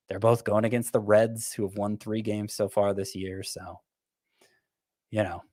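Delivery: trailing off without much conviction; lukewarm, petering out; unenthusiastic. Real, not acted. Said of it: "can you hear the enthusiasm in my voice".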